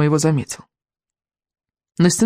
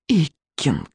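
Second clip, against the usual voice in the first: hissing dragon head; 4 dB quieter than usual. Acted. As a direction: hiss the name with relish. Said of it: "прошипела средняя голова".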